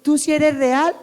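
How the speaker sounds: doubting question. Acted. Believers still questioning the Lord, doubting. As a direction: question God as if unconvinced. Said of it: "todavía le preguntamos".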